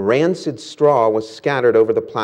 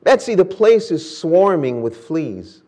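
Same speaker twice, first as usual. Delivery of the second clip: alarmed; 5 semitones higher than usual. Acted. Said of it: "she cried".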